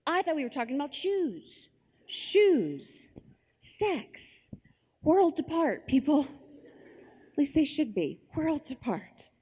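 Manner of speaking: high, emphatic, incredulous protest; mock indignation. Girl explaining her innocent mistake, acted indignation. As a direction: protest the mix-up in hammed-up disbelief.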